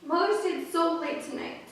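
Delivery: put-on high, slow childlike complaint; acted small girl's plaintive cry; crying little sister. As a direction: plead like a tearful hungry child. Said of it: "and began to cry".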